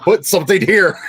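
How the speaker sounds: rereads the marker through laughter; laughing while reading. Retold or imitated. Laughing as she reads the draft marker to friends. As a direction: laugh it out, amused.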